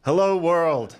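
strange high alien greeting. Pretend. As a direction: say it like a space alien. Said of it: "You sound like an alien".

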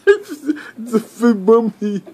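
slow, laughing through a mouthful; mouth full. Real, not acted. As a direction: mumble it round marshmallows. Toddler says chubby bunny, mouth full.

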